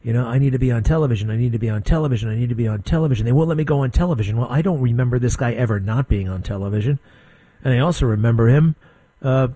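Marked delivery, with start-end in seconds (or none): 0.2-4.3 rapid repetitive mock griping; mock complaining. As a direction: imitate someone griping on a loop, rushed. Mocking Fauci's repeated TV complaints.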